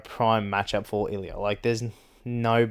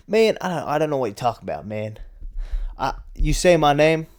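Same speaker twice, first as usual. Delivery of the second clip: lightly put-on fighter trash talk; half-hearted mock tough-guy impression; Brendan Allen. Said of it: "how do you do a Brendan Allen impression".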